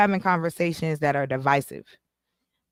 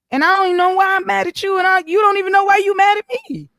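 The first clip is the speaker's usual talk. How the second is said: fired-up rant; 10 semitones higher, 3 dB louder, faster than usual. Real, not acted. Ranting about pointless anger.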